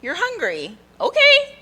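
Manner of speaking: loud, hammed-up fed-up parent; mock exasperation. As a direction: act the exasperated mom, breaking into a laugh. Acted exasperation with hungry child.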